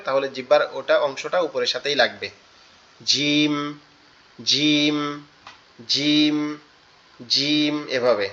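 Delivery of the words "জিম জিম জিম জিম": "জিম" said hard, tongue middle on the palate; firm jeem. Shown as a demonstration. Teacher shows a firm "জিম" to students. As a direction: press the tongue up firmly on "জিম". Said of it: "জিম এটা বলি শক্ত করে".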